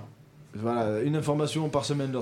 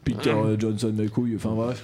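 classical radio host voice; 6 semitones lower than usual. Retold or imitated. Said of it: "avec une voix, euh, classique vingt et un".

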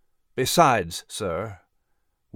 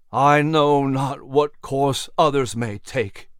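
groaned; slower than usual. Acted. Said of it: "he groaned".

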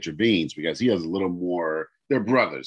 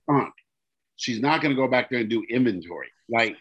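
louder, exasperated plea at uncle; exasperated outburst; 4 semitones higher, 6 dB louder than usual. Retold or imitated. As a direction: lose it at the stubborn uncle. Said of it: "I sort of lose my shit".

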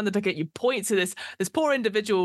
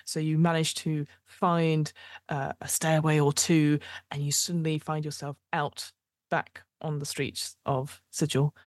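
game master narration. Acted. GM describing the streets of Sigil, measured narration. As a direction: paint the aftermath for the player.

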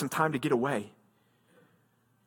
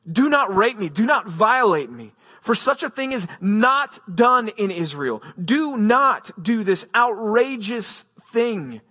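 raised, slow, urgent plea, mildly acted; a preacher voicing a desperate plea, understated; pleading; 5 semitones higher, 4 dB louder than usual. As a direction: beg him to stop, in a lightly voiced plea. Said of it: "she's pleading, she's begging him".

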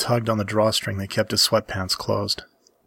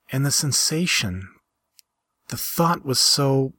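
higher female character voice, wistful and searching; Rowan's wistful voice; 4 semitones higher than usual. Acted. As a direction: speak as Rowan, mourning what she was.

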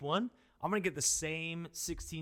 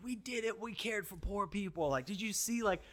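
mocking self-praise; 6 semitones higher than usual. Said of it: "we're like".

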